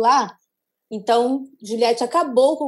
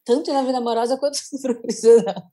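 playful TV host impression with a laugh; Faustão. Co-host repeats their own line as a joke, lightly imitating a TV host. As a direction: lightly mimic a TV presenter's phrasing, amused. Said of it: "falei agora igual o Faustão".

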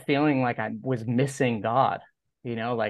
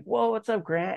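retold high-pitched hello; excited greeting back; 10 semitones higher than usual. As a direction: echo a friend's greeting, pitched way up. Acted return greeting to surfer friend.

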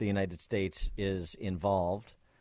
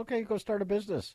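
sarcastic; 11 semitones higher, faster than usual. Acted. Sarcastic reply to quote.

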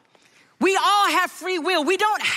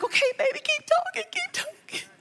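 high, soft coaxing; tender encouragement; 13 semitones higher, 3 dB quieter than usual. Retold or imitated. Mom softly urging her son to keep talking. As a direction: gently urge him on. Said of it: "And I'm like".

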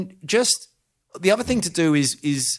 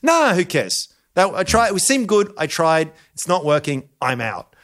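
imagined quitter; 6 semitones higher than usual. Retold or imitated. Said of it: "And it's like".

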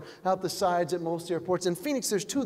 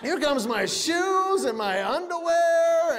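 laughing; 7 semitones higher, slower than usual. Real, not acted. Clear garbage bag on carousel.

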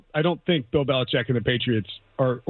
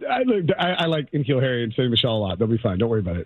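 sarcastic; 5 semitones lower than usual. Acted. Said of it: "I'm just being sarcastic".

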